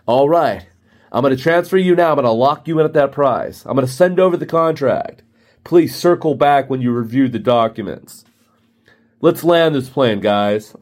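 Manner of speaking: lightly mocked closer's patter; a hint of a slick rep closing the deal; sales lingo. Rep locks in the client, lightly put-on sales voice. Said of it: "all the sales lingo".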